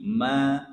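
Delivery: 'ma' held for two beats; two-beat vowel. Shown as a demonstration. Teacher showing the count, lengthened ma. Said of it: "dua harokat ya".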